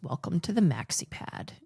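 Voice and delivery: flat droning deadpan delivery; monotone voice. Retold or imitated. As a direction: say it with no tune at all. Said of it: "in this monotone voice".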